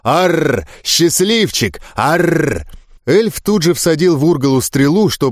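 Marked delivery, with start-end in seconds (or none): 0.0-2.6 crazed orc cry. Acted. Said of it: "Орк безумно захохотал, наускивая зверя".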